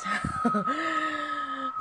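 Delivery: high shouted horror cackle; evil laugh. Acted. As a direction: cackle it out in one breath. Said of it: "Kok kira tuh ketawa kayak gitu tuh gampang? Harus satu nafas".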